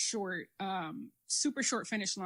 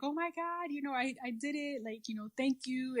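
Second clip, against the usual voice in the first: emotional; 4 semitones higher, 4 dB quieter than usual. Retold or imitated. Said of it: "started getting emotional".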